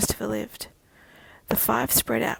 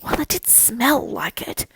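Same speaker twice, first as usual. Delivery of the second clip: put-on slow Irish accent; lilting Irish voice; 3 semitones higher, 3 dB louder, slower than usual. A narrator's reading. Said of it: "the Irish one responded".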